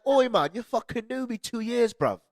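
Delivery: loud, high, slowed mock outburst in British accent; retold indignant disbelief. Retelling outburst at gullible friends, mock indignant disbelief.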